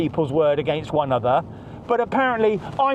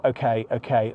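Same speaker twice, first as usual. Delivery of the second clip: very neutral; 9 semitones lower than usual. Retold or imitated. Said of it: "I'm just getting very neutral".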